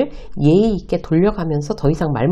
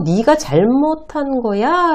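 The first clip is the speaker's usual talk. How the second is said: slow, high, pointed delivery; telling a rude person plainly they're wrong; blunt and slow; 7 semitones higher, much slower than usual. Shown as a demonstration. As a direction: spell it out word by word. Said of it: "대놓고".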